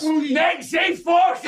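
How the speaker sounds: slow high laughing yell; after laughing hard. Real, not acted. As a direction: stretch it out, laughing. Shouting jokingly amid laughter.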